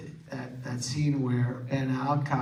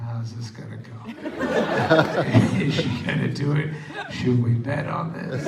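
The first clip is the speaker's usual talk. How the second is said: laughing inner voice. Retold or imitated. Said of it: "in my head, I'm just going".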